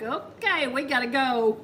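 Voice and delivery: lifted voice, half laughing; retold brisk sign-off. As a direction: re-enact wrapping things up in a hurry. Re-enacts her abrupt goodbye.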